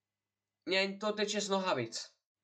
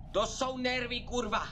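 nervous shouting; 8 semitones higher, slower than usual. Real, not acted. Streamer tells viewers his nerves, nervous shouting. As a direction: yell out the tension. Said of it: "sorry, že tak řvu".

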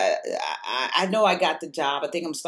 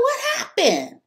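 high, loud demand in shock; retold shout; 6 dB louder than usual. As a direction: fling the question out in disbelief. Retelling a shocked argument.

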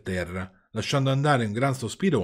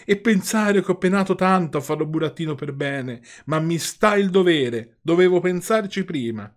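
sobbing; 7 semitones higher, 6 dB louder than usual. Acted. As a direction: cry out the words through sobs.

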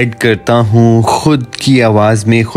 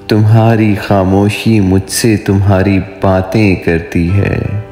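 poetry recitation; 3 semitones higher than usual. Acted. Poet voicing a dialogue of lovers for his viewers, romantic poetry recitation. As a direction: recite a love poem, lingering on line endings. Recites own love poem.

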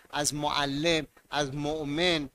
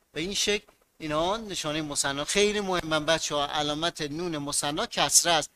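ordinary talk

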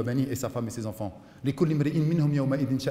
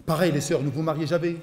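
usual speaking voice

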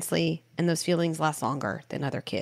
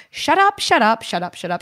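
much higher, louder playful shouting; yelling it out; 4 semitones higher, 8 dB louder than usual. Shown as a demonstration. Parent shouting the bad words out with her son. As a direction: blast the words out to get them out of your body. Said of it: "And I'd say this in the room".

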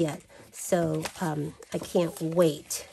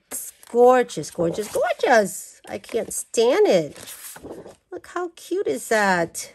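gushing; 4 semitones higher, 4 dB louder than usual. Real, not acted. Gushing over the paper.

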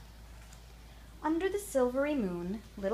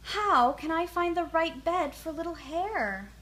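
sighing; 7 semitones higher, 5 dB louder than usual. A narrator's reading. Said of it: "she sighed".

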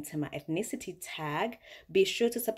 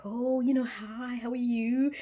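posh airport lady; 7 semitones higher, 3 dB louder than usual. Retold or imitated. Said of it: "speaking to me in proper, proper English".

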